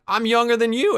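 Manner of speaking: very high-pitched mock protest; exasperated protest. Teen gamer arguing with kids who call him old, exasperated protest. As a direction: let the pitch leap up in disbelief. Retold quarrel with online kids.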